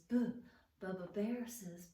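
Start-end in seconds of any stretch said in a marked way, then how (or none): 0.1-0.3 "Boo" as a short b sound; buh sound. Shown as a demonstration. Teacher modelling the b sound for kids. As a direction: say "Boo" to show the letter b.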